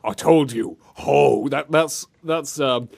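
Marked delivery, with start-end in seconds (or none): 0.0-1.5 gruff imitation. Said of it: "Mister Gruff Man from Two Worlds".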